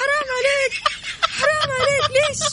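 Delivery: high, loud laughing protest, half in disbelief. Real, not acted. Co-host laughing loudly at the quiz answer. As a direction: cry out 'how could you' through laughter.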